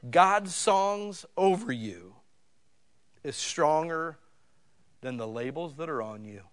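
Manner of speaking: "God's songs over you" loud, high and drawn out; slow, loud "God's songs", easing down by "labels"; emphatic declaration. Real, not acted. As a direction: proclaim "stronger" firmly, pausing between phrases. Preacher drives home his key line.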